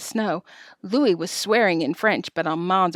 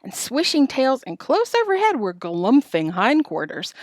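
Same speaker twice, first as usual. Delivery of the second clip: high-pitched storytelling rush of feeling; breathless-with-alarm storyteller; excited narration; 7 semitones higher than usual. A narrator's reading. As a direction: tell it as if hooves are flying at you. Narrating chaotic runaway.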